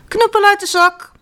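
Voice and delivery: loud high call, ordering the stick; shouted command. Acted. Boy commands his magic stick, loud. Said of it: "riep de jongen".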